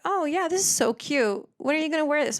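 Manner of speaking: gushing clerk. Retold or imitated. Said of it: "she'd be like".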